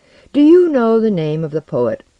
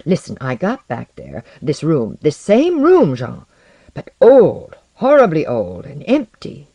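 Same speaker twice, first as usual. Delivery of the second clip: high, loud, urgent confession; distraught outpouring; 5 semitones higher, 5 dB louder than usual. A narrator's reading. Visitor telling his friend of an empty return, distraught. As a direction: pour it out, pitch leaping on the questions.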